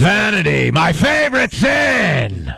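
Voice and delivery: Pacino devil line. Retold or imitated. The devil gloating over vanity, mock Pacino shout. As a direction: bellow it like a gleeful devil. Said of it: "over the top he was".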